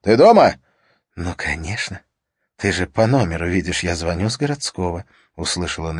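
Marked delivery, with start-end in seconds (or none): 0.0-0.5 loud, high shout; shouting into phone. Acted. 1.1-5.0 soft voice. Acted. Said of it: "её голос, мягкий".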